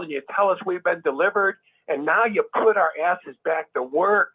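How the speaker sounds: indignant rebuke with moderate force; mildly heated, building a list of grievances; imagined anger. Acted. Imagined member confronting the governing body, indignant. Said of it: "I would feel so angry".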